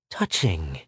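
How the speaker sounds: low, understated grating sneer; grated. A narrator's reading. Secretary scoffs at Pola's refusal to be bought, grating. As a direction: drop the pitch and grate it out. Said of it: "grated the secretary".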